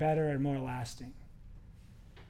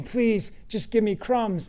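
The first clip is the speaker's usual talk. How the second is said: retold plea, raised in pitch; pleading; 4 semitones higher, 3 dB louder, slower than usual. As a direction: beg as if on your knees. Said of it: "on her knees at the hem of his garment saying".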